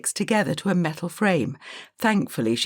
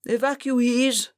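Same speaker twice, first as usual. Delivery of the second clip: put-on high, slow call of an old teacher; stern schoolteacher calling out; teacher shouting; 8 semitones higher, slower than usual. A narrator's reading. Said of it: "shouted the teacher".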